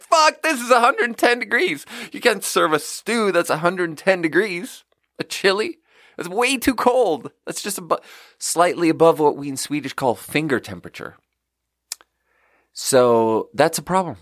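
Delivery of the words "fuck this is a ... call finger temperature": much higher, hammed-up panicking chef; frantic chef. Chef yelling at the waiter over a cold stew, high and frantic.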